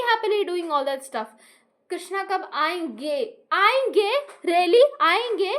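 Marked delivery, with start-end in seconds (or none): 1.9-3.2 slow, gentle asking; loving call. Retold or imitated. Family lovingly asking when Krishna will come, gentle and slow. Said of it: "इतना प्यार से लोग उसको बोलते हैं". 3.5-5.5 imitating a rude, dismissive comeback, a bit louder and higher; rude mocking reply. Imitating her brother answering the family in a rude tone. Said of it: "बड़ा इतना घटिया टोन में बोलता है".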